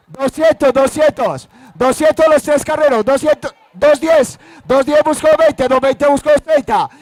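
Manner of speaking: auctioneer chanting rising bids; rapid auctioneer. Real, not acted. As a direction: keep the bids rolling, auction style. Live auction bidding calls.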